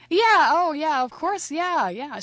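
high-pitched, hasty-sounding reassurance; overeager bluff. Retold or imitated. Man pretends to remember old girlfriend, high overeager bluff. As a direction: burst in high, covering up that you forgot.

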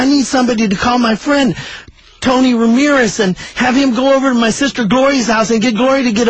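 a hint of urgent begging; jailed caller. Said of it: "this voice came on and said".

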